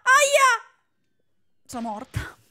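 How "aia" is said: loud high yelp of pain; pained cry. Acted. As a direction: yelp as if hit. (grido di dolore)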